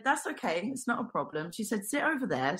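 gently reassure, as a retold therapist; imitated soothing healer. Healer calming a crying visitor, soft and reassuring.

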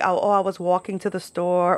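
lightly put-on New York accent. Shown as a demonstration. Showing how words come out around friends, light New York accent. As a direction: let the New York vowels slip out. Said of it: "I don't really talk like that".

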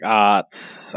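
drawn-out, halting practice noises; practising speech sounds. Retold or imitated. Mute heroine trying to learn how to speak, slow practice sounds. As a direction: imitate slowly trying out first sounds. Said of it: "practicing sounds".

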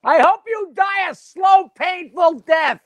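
high, slow, drawn-out curse; wife cursing him on his way out, slowly; slow spiteful curse. Acted. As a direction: spit out each word slowly. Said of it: "she says".

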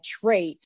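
"Tree" said like "tray", with a drawn-out vowel; tree said with an accent. Retold or imitated. Recalling a first-season line on set, "Tree" said as "tray". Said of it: "And I said it like".

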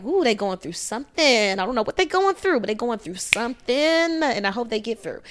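whisper-gossip about someone struggling; mock gossipy concern. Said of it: "seen someone look like".

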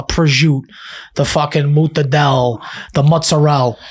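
"prosciutto", "mortadella", "mozzarella" with final vowels dropped; mock Italian-American pronunciation. Co-host mocking New Yorkers, end vowels dropped on "prosciutto", "mortadella", "mozzarella". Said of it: "they start dropping all the".

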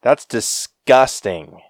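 slow, loud and disgusted. Real, not acted. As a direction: drag out the disgust. Reacting to real moths in mouth.

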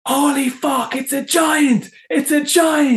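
high, amazed yell of a huge catch; rising thrill, shouting it out; a fisherman stunned by a monster fish; excited disbelief. Retold or imitated. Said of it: "all I just remember was like".

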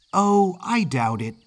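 put-on high-pitched, breezy Yankee kid; lively young Northern lad; chatty Yankee boy. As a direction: toss it off like a confident Yankee boy. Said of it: "accent of a mid-Atlantic Yankee".

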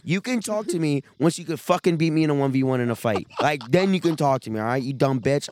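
loud, heated rant; daring her to fight him; angry rant. Real, not acted. Ranting at a classmate, loud and heated.

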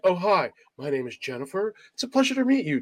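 lightly put-on polite introduction, lifting high at the end; hint of a sweetly proper greeting; polite Americanized woman. Latina woman introducing herself before forty-five, lightly put-on polite voice. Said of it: "she goes from, like".

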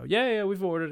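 high, loud blurted answer; hasty cutting in. Retold or imitated. Brother answering waiter before his brother can, high and hasty. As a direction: jump in before anyone else can speak. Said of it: "instinctively, without letting him, my brother, have a word in".

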